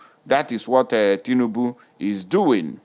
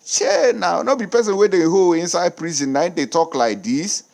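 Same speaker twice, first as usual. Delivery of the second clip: mock amazed onlooker; 4 semitones higher than usual. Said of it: "rethink and say".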